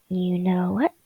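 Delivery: "You know what?" all breath, no voice; whispering. Shown as a demonstration. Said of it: "You know what? (whispered take)".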